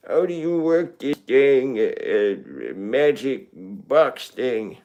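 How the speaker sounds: a lightly voiced, slow old codger; a hint of an old man fumbling with a gadget. Shown as a demonstration. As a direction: grumble like a cranky grandpa. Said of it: "I can do an old man".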